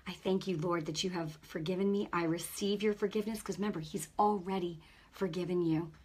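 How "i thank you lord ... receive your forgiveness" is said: repentance prayer. Shown as a demonstration.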